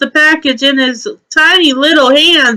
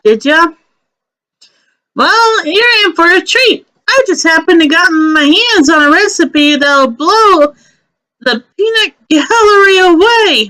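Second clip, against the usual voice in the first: breathless Omi; 3 semitones higher than usual. Acted. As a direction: gasp it out after running. GM voicing Omi the chef.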